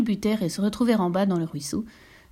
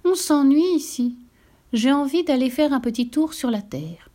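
high, lively little droplet voice; a bored little raindrop wanting adventure; little drop Perlette telling the cloud she's bored; droplet waking bored; 5 semitones higher than usual. Acted. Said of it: "se leva en bâillant".

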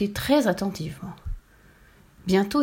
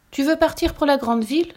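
worried mother; 7 semitones higher, 4 dB louder than usual. A narrator's reading. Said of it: "s'inquiète sa mère".

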